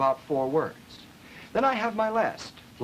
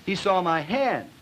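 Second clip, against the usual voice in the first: slow, drawn-out and higher, hand stretched long; heavy drawl; 4 semitones higher, 3 dB louder, slower than usual. Shown as a demonstration. Lecturer demonstrating double plus drawl to students, slow and drawn out. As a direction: drag every word out slowly. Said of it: "double plus drawl".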